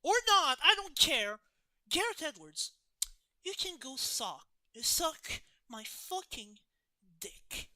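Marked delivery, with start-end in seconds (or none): 0.0-5.4 loud, high, defiant outburst. Real, not acted. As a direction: throw it out as a challenge. Defiant rant about AI.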